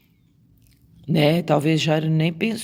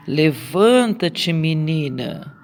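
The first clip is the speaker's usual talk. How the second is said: Levanta-te devagar, um pouco mais forte; clamando alto; slower than usual. Retold or imitated. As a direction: uma ordem clamada com autoridade. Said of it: "clamando alto". (Jesus chama a menina morta, em ordem clamada)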